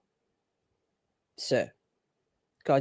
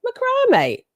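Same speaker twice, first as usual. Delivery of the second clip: "Macrame" squeaked up very high, mocking; squeaky mocking "Macrame". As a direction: parrot "Macrame" in a silly high voice. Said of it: "Isn't it what I say?".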